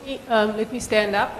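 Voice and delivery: hoarse, croaky speaking voice. Real, not acted. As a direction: talk through a croaky throat. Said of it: "apologies for the croaky voice".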